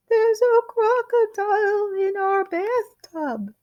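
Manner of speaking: choked terror, barely a voice; wife whispering the shock to husband; sharp hoarse whisper. Acted. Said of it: "sharp, hoarse whisper of a voice".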